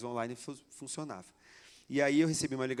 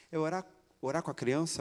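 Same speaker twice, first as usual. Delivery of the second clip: doubtful question, rising at the end; incredulous question; 3 semitones higher than usual. Retold or imitated. Wife questioning praying with a small child, incredulous. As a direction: query it in mild disbelief.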